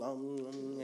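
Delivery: hummed munching like a grazing cow; cow munching noise. Retold or imitated. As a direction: imitate a cow chewing contentedly. Imitates cows munching grass.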